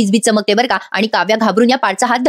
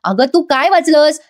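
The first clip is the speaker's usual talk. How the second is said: higher-pitched acted dismay; incredulous explaining; 5 semitones higher than usual. Husband realising wife signed divorce papers over letter, dismayed. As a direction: question her in disbelief, stretching the end. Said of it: "समजून सांगत असतो".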